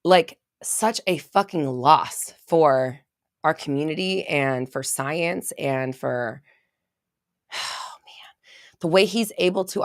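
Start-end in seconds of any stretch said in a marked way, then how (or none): 0.0-6.4 slow, halting and choked up; real sorrow, words dragging out; getting emotional. Real, not acted. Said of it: "Sorry, I'm getting emotional". 7.2-8.3 sighing whisper; real grief, sighed in a whisper; emotional sigh. Real, not acted. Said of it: "Sorry, I'm getting emotional".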